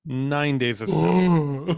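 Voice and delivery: slow, drawn-out, lightly voiced Yeti moan; Yeti impression. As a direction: moan it slowly like a horrified Yeti. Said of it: "It's my Yeti impression".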